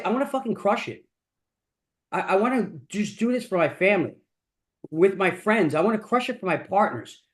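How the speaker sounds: earnest self-talk; really meaning it. Shown as a demonstration. Coaching entrepreneurs on affirmations, earnest and committed. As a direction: say it like you truly believe it. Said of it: "really mean it, man".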